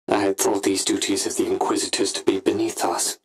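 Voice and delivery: normal talking voice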